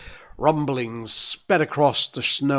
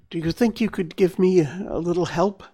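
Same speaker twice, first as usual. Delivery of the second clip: light, higher-pitched polite request; relaxed, almost gay; 7 semitones higher than usual. A narrator's reading. Wounded hare asking Bambi for help, relaxed and almost gay. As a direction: ask lightly, as if nothing were wrong. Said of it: "She spoke as if she were perfectly all right".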